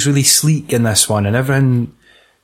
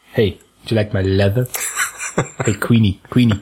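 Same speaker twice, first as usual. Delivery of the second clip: leathery guard; 4 semitones lower, faster than usual. Acted. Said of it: "these guys are like".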